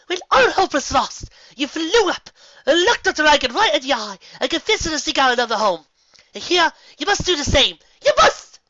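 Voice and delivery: high, loud, theatrical rousing; rally her grandly; dramatic pep talk. Acted. Rarity dramatically rallies Fluttershy to face the dragon, high and loud.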